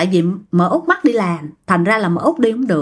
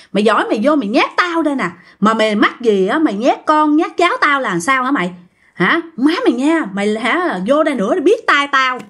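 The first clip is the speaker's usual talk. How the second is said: acted challenge, pitch jumping up; cursing grandmother; 4 semitones higher than usual. Grandmother waving a knife and cursing the ghost, acted scolding. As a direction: scold and dare them, at storytelling volume. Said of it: "Mà ngoại vừa quơ con dao vừa chửi nha".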